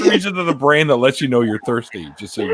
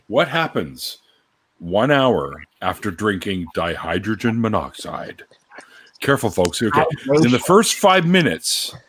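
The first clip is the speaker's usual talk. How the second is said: slow, deliberate scare-article reading; mock-serious read-aloud. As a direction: read it like an ominous science warning, amused. Reads mock warning aloud.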